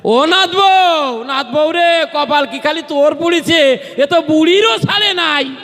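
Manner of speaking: high-pitched, drawn-out comic outcry; mock cry of alarm. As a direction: wail out in granny's hammed-up shock. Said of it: "একটা চিৎকার দেছে".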